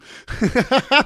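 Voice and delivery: high burst of real laughter; rising giggle of real amusement. Real, not acted. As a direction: crack up, rising. Cracking up at joke.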